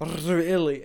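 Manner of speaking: "Really" opened on a long, effortful trilled R; attempted rolled R. Shown as a demonstration. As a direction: try to trill the R at the start of "Really". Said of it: "I, I can't do it".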